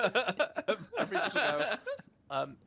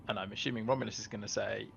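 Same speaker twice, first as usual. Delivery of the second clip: ordinary delivery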